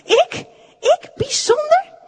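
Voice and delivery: very high, amused squeak of disbelief; laughing disbelief. A narrator's reading. Wooden man hears he is special, laughing. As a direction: squeal it incredulously, just after a laugh. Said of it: "Wout moest lachen".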